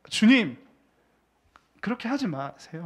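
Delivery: brusque, nearly informal protest; half-casual protest. Acted. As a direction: say it to Jesus like talking down to a peer. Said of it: "약간 반말 비슷하게".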